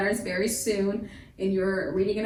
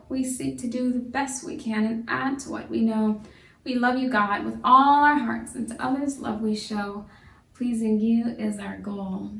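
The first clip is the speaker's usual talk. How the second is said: rhymed prayer. Acted. Leads a rhymed class prayer.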